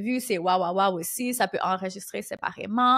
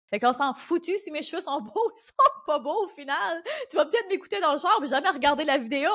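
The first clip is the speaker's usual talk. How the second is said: higher pitch broken by laughter; amused, laughing; 5 semitones higher than usual. Real, not acted. Podcaster joking to listeners about her hair, laughing. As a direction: laugh through your own joke.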